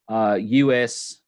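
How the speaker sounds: slipping lightly into an Australian accent. Real, not acted. Host reading out pendant details, slight Australian accent. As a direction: talk with a touch of Aussie. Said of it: "talking in an Australian accent".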